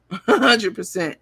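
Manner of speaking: says "A hundred percent" through a laugh. Real, not acted. Repeats the phrase with a laugh.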